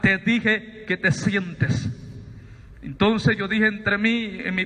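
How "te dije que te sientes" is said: put-on old man's slow, firm command, a bit lower; slow voice of authority. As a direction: lay down the order slowly, unhurried and final. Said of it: "con una voz de autoridad". (el anciano le ordena a Sabino sentarse, voz lenta de autoridad)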